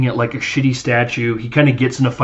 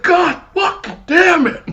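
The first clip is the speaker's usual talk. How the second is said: high, slow, stretched yell of "God fucking damn it!"; howling curse; drawn-out pained yell. Retold or imitated. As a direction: drag the curse out as the slap stings. Retold reaction to being slapped.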